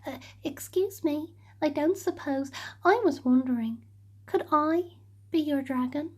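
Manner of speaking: soft, hesitant and nervous; quiet nervous little dragon; trembling, timid. Acted. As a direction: ask shyly, afraid of a no.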